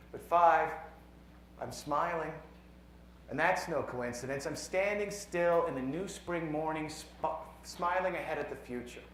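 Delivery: measured poem reading with deliberate pauses; poetry reading. Acted. Poet reads a science poem to a conference audience, measured poetry reading. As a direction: read it as verse, letting each numbered line land.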